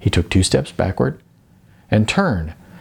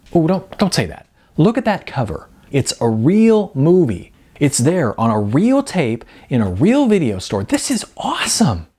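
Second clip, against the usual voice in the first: cheerful wife; 6 semitones higher than usual. A narrator's reading. Melanie voiced by narrator.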